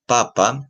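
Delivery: papa with the accent on the opening pa; teacher's example papa, stressed at the start; stress on first syllable. Shown as a demonstration. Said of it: "en la primera sílaba".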